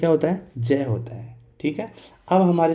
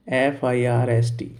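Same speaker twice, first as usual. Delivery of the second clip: spelling out; 3 semitones lower, slower than usual. Shown as a demonstration. Teacher spells out the word.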